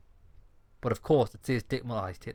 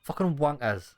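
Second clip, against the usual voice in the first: mock curse in a put-on voice; 3 semitones higher, slower than usual.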